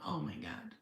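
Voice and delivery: hushed whisper to herself; soft emotional whisper. Real, not acted. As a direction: breathe it out, barely voiced. Emotional aside about being abandoned.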